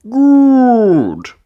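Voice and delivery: jolly piglet dad, voice put on; a cheerful put-on dad voice; Daddy Pig voice. A narrator's reading. Narrator voicing Daddy Pig answering Peppa, jolly dad voice.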